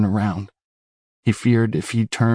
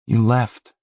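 reproachful; 2 semitones higher than usual. Acted. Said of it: "he said reproachfully".

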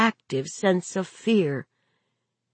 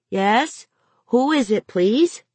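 put-on higher, careful child voice; little boy's practised phone manners, pitched up; young boy on phone; 5 semitones higher than usual. A narrator's reading. Boy answering the phone politely, high child voice.

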